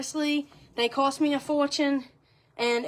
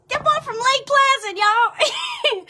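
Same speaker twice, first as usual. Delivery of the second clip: laughing shout; 14 semitones higher, 9 dB louder, slower than usual. Real, not acted. Laughing at a viewer's joke.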